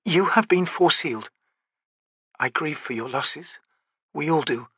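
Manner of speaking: gentle. A narrator's reading. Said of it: "her expression gentle".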